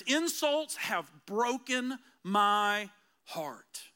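scripture reading. Acted. Pastor reads Psalm sixty-nine aloud, solemn scripture reading. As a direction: read it as a heartbroken psalm.

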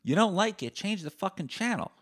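high, loud furious rant at the haters; escalating rage, a scream on "Fuck off"; angry rant. Real, not acted. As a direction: yell them off the podcast in a rage. Ranting at critical listeners.

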